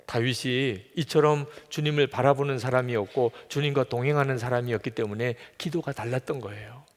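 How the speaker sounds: normal talking voice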